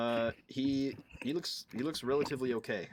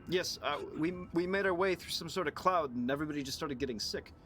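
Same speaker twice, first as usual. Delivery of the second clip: higher, halting stammer of a rattled survivor; flustered Zeb, stammering; 5 semitones higher than usual. Acted. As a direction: stumble over the words, searching for an answer. Game master voices flustered Zeb.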